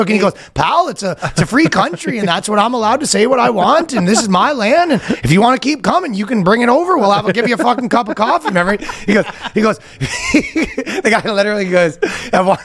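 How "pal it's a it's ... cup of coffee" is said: higher-pitched mock Canadian; Canadian accent. Guy answers officers at his door, Canadian accent. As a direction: push back in a hammed-up Canadian accent. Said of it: "the most Canadian interaction".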